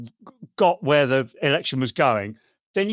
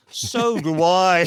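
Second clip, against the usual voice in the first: light Gandalf voice; slower than usual. Retold or imitated. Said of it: "said Gandalf".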